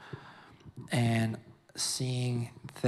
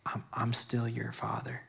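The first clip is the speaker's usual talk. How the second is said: God's tender voice; 6 dB quieter than usual. Retold or imitated. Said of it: "he's like".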